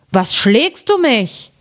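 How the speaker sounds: drowsy giant complaining to his companion; sleepy giant. Acted. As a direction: drag it out like a dozy giant. Giant woken by stones, grumbling.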